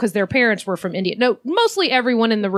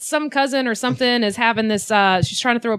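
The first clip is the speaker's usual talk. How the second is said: friend's pitch; 3 semitones higher than usual. Retold or imitated. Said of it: "So he was like".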